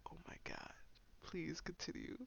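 hushed, breathy swoon; softly acted, smitten reaction; mock swooning. Listener melting at a French accent, hushed swoon.

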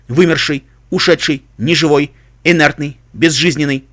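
mechanical list readout; robot voice. Acted. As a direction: rattle off like a machine. Computer lists synonyms. (механический голос)

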